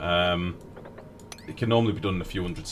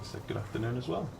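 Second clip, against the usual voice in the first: smarmy voice; 5 semitones higher, 5 dB quieter than usual. Acted. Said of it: "Why did you put on your smarmy voice?".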